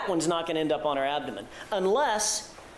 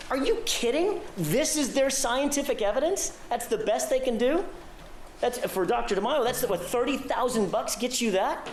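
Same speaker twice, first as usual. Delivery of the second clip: incredulous; 5 semitones higher than usual. Real, not acted. Ridicules the expert's fee.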